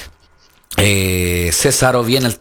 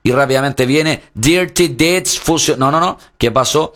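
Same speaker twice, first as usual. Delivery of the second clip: excited; 2 semitones higher than usual. Real, not acted. Finisher call.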